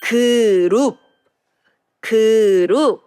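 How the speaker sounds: teacher modeling 그룹; Korean 그룹. Shown as a demonstration. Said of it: "let's read the word together".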